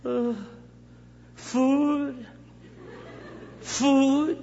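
high, whiny craving cry. Pretend. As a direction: whine for food like a baby. Old man's craving voice.

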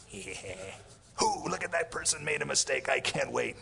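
hushed mock glee at a mistake; gleeful judge. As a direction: play a God who can't wait to punish. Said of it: "people picture God as he's up there".

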